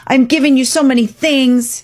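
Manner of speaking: mock the wounded parent who tries so hard; a hint of a hurt, guilt-tripping mom. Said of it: "The parent might get hurt and say".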